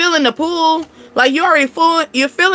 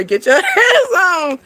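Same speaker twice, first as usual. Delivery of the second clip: laughing shoo; 6 semitones higher, slower than usual. Retold or imitated. Shooing a dog, laughing.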